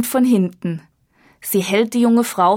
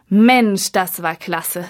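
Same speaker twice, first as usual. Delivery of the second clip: praising; slower than usual. Acted. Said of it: "lobt der Regisseur".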